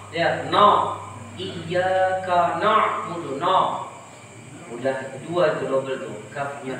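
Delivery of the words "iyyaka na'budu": na'budu with a thick, heavy nun, slow. Shown as a demonstration. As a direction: darken the na of na'budu. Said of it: "Menebalkan huruf nun". (nun na'budu tebal)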